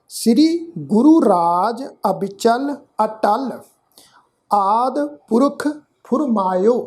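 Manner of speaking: slow, measured Gurbani reading; scripture recitation. Shown as a demonstration. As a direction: recite in short phrases with drawn-out vowels. Teacher recites scripture for learners.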